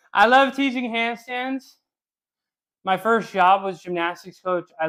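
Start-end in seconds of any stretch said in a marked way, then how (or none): 0.1-1.8 higher and slower, dwelling on love; really mean it this time, drawn out; emphatic gush. Shown as a demonstration.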